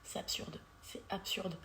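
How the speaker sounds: softly, almost under the breath; quiet dismay. Real, not acted. Victim reflecting on everyday harassment, hushed dismay.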